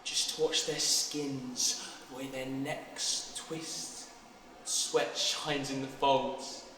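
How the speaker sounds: slow, low and hushed; entranced. Acted. Boy remembering the horses' skins and necks, entranced. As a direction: linger softly over each detail.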